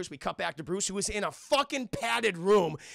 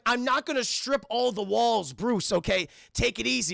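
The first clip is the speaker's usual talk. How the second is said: louder, higher protest; acted exasperation; exasperated refusal; 5 semitones higher, 5 dB louder than usual. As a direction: push back on a frantic friend.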